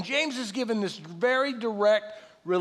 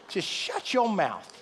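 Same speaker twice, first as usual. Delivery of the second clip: inner voice; slower than usual. Retold or imitated. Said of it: "the voice says".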